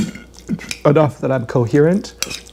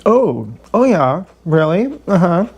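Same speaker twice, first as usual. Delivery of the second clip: drawn-out mock interest, higher; a slow, lightly higher oh yeah; fake interested; 4 semitones higher than usual. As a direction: feign polite interest. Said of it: "So instead, I go".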